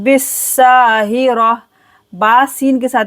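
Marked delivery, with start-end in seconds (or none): 0.0-1.5 बिस्साहिरा with a held hissed s and long aa; measured Quran-lesson बिस्साहिरा, syllables joined; joined syllable recitation. Shown as a demonstration. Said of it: "बा सीन जेर बिस".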